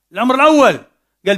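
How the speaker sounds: ordinary talk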